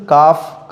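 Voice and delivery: "काफ" with an ordinary front k; simple pronunciation. Shown as a demonstration. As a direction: say "काफ" short and light. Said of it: "ये तो simple है". ("काफ" सादे क से)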